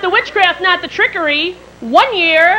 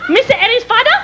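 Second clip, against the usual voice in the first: put-on higher-pitched East Asian accent, questioning; imitated East Asian accent; 8 semitones higher, faster than usual. Housekeeper to employer, questioning in imitated East Asian accent. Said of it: "a little Oriental woman to come out and go".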